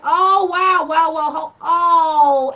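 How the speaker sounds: loud high wow; surprised. Real, not acted. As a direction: react with surprise. Surprised by a comment.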